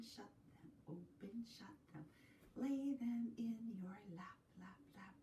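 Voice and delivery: soft, rhythmic nursery chant; gentle rhyme with quiet echoes; action rhyme. Acted. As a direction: lead little ones through a hand rhyme.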